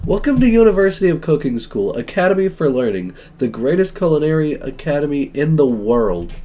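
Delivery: lightly hammed-up welcome address; rousing speech. Professor welcoming students to cooking school, rousing speech. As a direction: build a grand list for the class. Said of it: "interrupts the professor's rousing speech".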